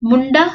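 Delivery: मुंडा with a nasal n; with tippi. Shown as a demonstration. Teacher shows मुंडा with tippi, nasal. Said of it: "अंतर पड़ गया".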